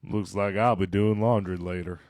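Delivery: a hint of deep he-man. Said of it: "my voice hit that certain decibel".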